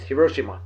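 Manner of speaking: Hiroshima said the Japanese way, he-RO-shee-ma; careful Japanese vowels in Hiroshima; Hiroshima, every syllable even and clear; Japanese pronunciation. Shown as a demonstration. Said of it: "Listen to the Japanese".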